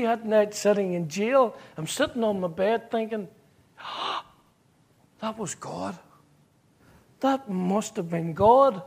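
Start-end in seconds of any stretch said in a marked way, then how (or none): 3.8-6.0 emotional. Real, not acted. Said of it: "I'm getting emotional". 7.2-8.8 emotional. Real, not acted. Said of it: "I'm getting emotional".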